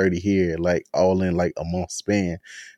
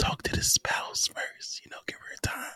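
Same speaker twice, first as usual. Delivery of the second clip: hushed, very quiet, confiding whisper. Sharing a personal ritual with the others, whispering. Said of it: "I'm going to whisper this".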